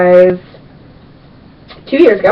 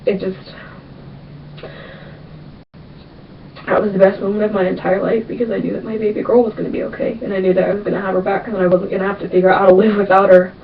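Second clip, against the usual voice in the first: quiet, choked-up voice; emotional, near tears; 6 dB quieter than usual. Real, not acted. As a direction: hold back tears, softly. Emotional memory, voice fading.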